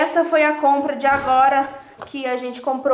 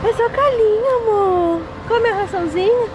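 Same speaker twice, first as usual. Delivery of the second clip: cooing pet talk; 7 semitones higher than usual. Real, not acted. Woman coaxing a shy stray cat to eat, high baby-talk coo. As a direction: coax the kitty sweetly to eat.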